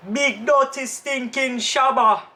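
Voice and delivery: slow, lightly voiced dancehall boast; a hint of a bragging dancehall star; slow, mildly put-on boast; dancehall artist impression. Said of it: "That's what he says about himself?".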